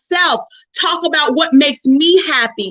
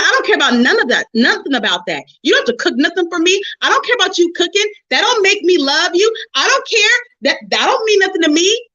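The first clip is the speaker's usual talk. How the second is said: heated retort; 5 semitones higher, faster than usual. Retold or imitated. Husband going off in argument.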